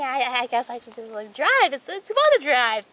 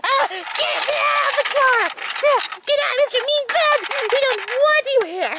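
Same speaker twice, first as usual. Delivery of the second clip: shooing shout; 6 semitones higher than usual. Acted. Shooing a bug from the car.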